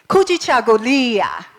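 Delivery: Kujichagulia: koo-jee-cha-goo-LEE-ah, clear and falling; Swahili word. Shown as a demonstration. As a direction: model Kujichagulia again. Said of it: "now we're gonna do Swahili".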